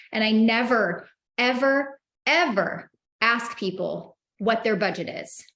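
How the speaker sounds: never, ever, ever hammered home one by one; stress on never ever ever. Real, not acted. To sales trainees, insisting on never asking budget. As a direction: lean hard on each never and ever.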